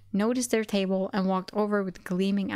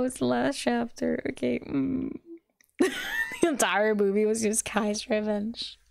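plain reading voice

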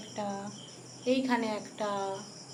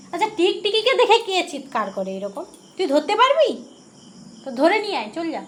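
laughing, louder and higher teasing at the pet; laughing tease; 7 semitones higher, 9 dB louder than usual. Real, not acted. Owner laughingly dares her pet to catch the lizard, loud amused tease. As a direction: laugh while daring the pet to catch one.

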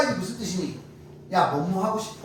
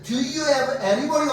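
raised and very slow Do you have any money가; careful slow model sentence; slow demo; 5 semitones higher, much slower than usual. Shown as a demonstration. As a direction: spell out the line slowly, a bit higher. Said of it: "원래는".

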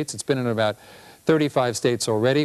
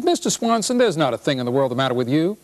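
lightly voiced doctor; 3 semitones higher than usual. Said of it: "He says".

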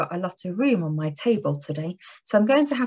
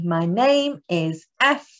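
1 slow model phrase; 2 semitones lower, slower than usual. Shown as a demonstration. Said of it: "We've been doing that".

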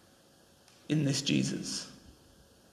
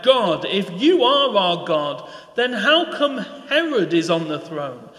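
anguished cry to God; 4 semitones higher than usual. Acted. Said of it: "a people that were calling out".

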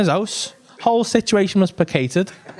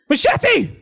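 high, strained call across the street; high-pitched incredulous calling; 11 semitones higher, much slower than usual. Retold or imitated. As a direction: holler up high, drawing the words out. Acted calling out to Machete.

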